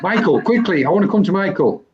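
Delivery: laughing while calling out. Real, not acted. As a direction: call his name through a laugh. Laughing host calls to Michael.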